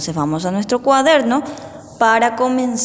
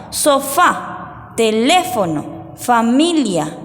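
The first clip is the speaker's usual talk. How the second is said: slow dictation; much slower than usual. Shown as a demonstration. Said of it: "vamos a hacer para el dictado".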